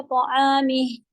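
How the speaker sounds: क़ामी drawn out slowly to a halt; stop rule. Shown as a demonstration. Teacher demonstrating the pause rule, slow. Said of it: "रुकने का rule अदा करेंगी".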